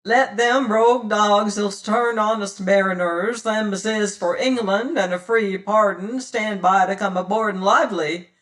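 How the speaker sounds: loud roaring call. Acted. Godby threatening the pirates ashore, loud. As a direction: bellow the threat across the bay. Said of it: "roared Godby's great voice".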